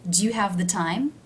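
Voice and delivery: "the" said low and quick in "Do you have the time?". Shown as a demonstration. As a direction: drop "the" low and light, stress "time". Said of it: "Do you see how the word the is low in pitch".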